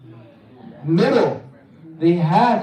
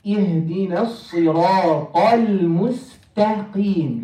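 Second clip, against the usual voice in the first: Quran recitation. Shown as a demonstration. Models verse for class.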